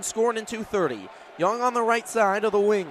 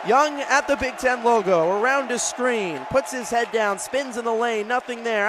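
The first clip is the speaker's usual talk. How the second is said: lifted radio play-by-play; energized call. Real, not acted. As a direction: keep pace with the roaring crowd. Crowd roars, play resumes.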